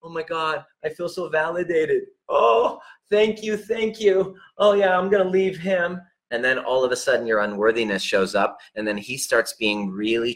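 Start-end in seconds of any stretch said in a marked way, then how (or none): 0.0-6.0 high-pitched, gushing relief; put-on girlish gratitude; mock validated woman. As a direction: imitate her gushing thanks, climbing higher. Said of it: "you're gonna feel like, ... validated".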